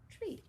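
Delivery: "Tree" high with long E; sounding out tree. Shown as a demonstration. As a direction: lift "Tree", stretch the E. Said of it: "E saying its name".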